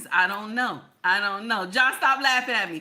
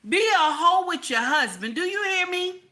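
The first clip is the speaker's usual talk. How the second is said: emphatic admonishing; 7 semitones higher, 4 dB louder than usual. Real, not acted. Driving home advice to viewers.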